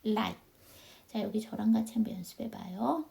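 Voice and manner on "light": "light" with silent gh and an unreleased final t; softened final T. Shown as a demonstration. Teacher showing learners how light is read, pronunciation demo. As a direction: model "light" as Korean 라잇, t stopped short. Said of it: "시옷이 된다".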